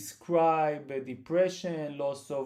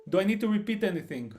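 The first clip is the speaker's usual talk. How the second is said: speaking louder; 4 semitones higher, 5 dB louder, much faster than usual. Real, not acted.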